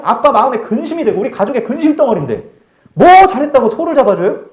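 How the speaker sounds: shouted high and loud, indignant; furious protest. Acted. Elder son shouts at father about the feast, furious. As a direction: rail at your father in outrage. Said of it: "막 흥분을 하면서 아버지한테 막 따지기".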